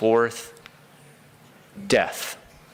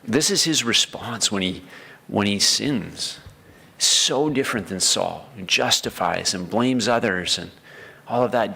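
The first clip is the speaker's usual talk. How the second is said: normal talking voice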